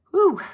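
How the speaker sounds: loud, high "whew" of reaction; high-pitched whew. Real, not acted. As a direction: let out a sudden high whoop. Reacting to a viewer's drug story.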